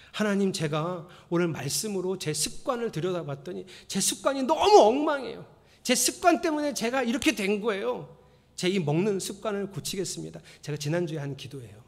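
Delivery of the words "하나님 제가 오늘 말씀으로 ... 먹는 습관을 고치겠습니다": earnest prayer. Shown as a demonstration. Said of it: "이렇게 기도하세요".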